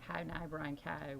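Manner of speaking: "Hi, Nye Brian Cow" said slowly with local OW vowels; measured sample of "Hi, Nye Brian Cow"; accent vowel demo. Shown as a demonstration. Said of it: "But it's all O U's".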